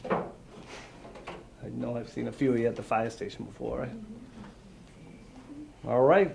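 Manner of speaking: ordinary delivery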